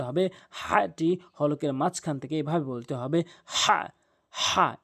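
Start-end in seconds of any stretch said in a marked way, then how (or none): 3.4-4.8 হা breathed from the middle of the throat, slow; letter demonstration. Shown as a demonstration. Teacher demonstrating the throat letter to students, slow and breathy. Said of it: "এভাবে বলবেন".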